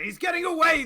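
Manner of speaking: high, loud alarmed shout. Acted. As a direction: yell after a fleeing foe. GM voices enemies shouting.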